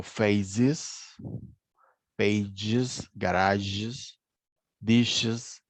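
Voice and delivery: "faces, pages, garages, dishes" each ending in a short "iz". Shown as a demonstration. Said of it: "la E queda como una I". ("faces, pages, garages, dishes" con la e final como i cortica)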